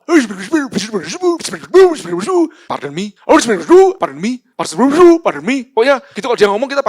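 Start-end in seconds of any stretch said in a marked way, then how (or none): 0.1-5.7 loud, high mock CEO saying pardon me; hammed-up foreign boss asking again; imitating the CEO. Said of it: "yang kalau ngomong".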